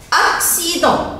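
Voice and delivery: "accident" with cc said "ks"; double C as ks. Shown as a demonstration. Teacher showing C before I, "accident" with ks. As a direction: say "accident" as ak-si-dan, sounding both consonants. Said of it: "Pourquoi j'entends X?".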